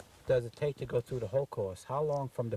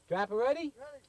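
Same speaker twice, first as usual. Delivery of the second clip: sharp raised shout; 10 semitones higher than usual. Real, not acted. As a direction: call it out across the field. Shooter calls for target.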